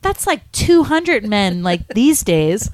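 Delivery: slow, high imitated granny voice; slow mock-granny boast; confessing old lady. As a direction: draw it out like a little granny. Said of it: "And then she goes".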